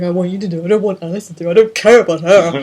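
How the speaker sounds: hammed-up emotional insistence; mock emotional. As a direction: act out a picky demand, building in volume. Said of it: "getting all, like, emotional".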